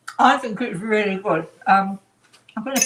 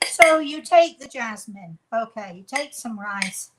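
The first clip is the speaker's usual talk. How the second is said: pretend professional; 3 dB louder than usual. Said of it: "I'm going to pretend I'm a professional".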